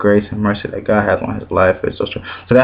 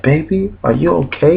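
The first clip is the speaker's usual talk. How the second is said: higher-pitched, lightly voiced caring church lady; gently probe, imitating a concerned elder; imitated concerned elder; 6 semitones higher than usual. Older church lady checking on young man, imitated concern.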